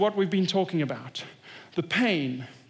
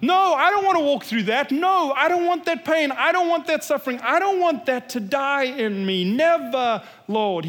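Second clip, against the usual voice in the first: pleading protest; 3 semitones higher than usual. Retold or imitated. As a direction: refuse the pain with rising insistence. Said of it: "That's what we say, right?".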